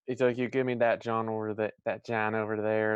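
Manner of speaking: quick Philadelphia accent; thick Philly accent, rushed. Shown as a demonstration. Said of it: "Imma sound more like this".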